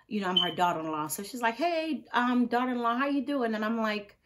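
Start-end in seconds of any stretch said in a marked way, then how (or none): 1.5-3.5 higher, lilting phone hello; friendly greeting. Retold or imitated. Pastor's wife calling her daughter-in-law, friendly. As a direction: imitate a mother-in-law checking in sweetly.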